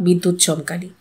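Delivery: plain reading voice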